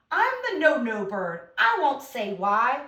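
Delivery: put-on slow, expressive read-aloud for kids; reading a poem to children. Shown as a demonstration. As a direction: read it slowly and with feeling to the class. Reads the poem stanza.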